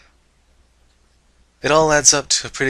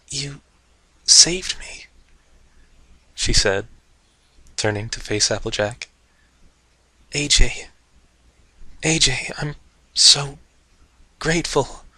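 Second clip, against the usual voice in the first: emotional gratitude; 3 semitones higher, slower than usual. Acted. Dash overwhelmed with gratitude.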